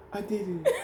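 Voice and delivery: high, laughing-crying mock sob; imitating crying. Husband imitating his wife's tearful relief after birth. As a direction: do a light impression of tearful triumph. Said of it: "She all crying".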